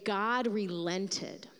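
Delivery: slow, hushed reading; preacher savoring the surprise, slow and low; slow awe. Real, not acted. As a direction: let each word land in wonder. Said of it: "Other translations say".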